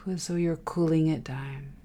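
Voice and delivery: soft whispered guidance. Real, not acted. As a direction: whisper it like a secret. Whispered breathing cue.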